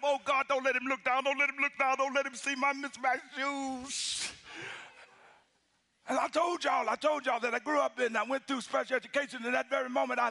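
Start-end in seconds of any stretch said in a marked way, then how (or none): 0.0-4.3 slowing pleading whisper-prayer inside; anxious silent prayer. Retold or imitated. Preacher praying his host won't see his shoes, slowing anxious plea. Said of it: "I'm thinking to myself".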